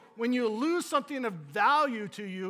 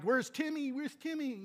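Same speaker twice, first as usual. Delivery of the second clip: calling out for Timmy; 7 semitones higher than usual. Retold or imitated. Parent calling for lost child.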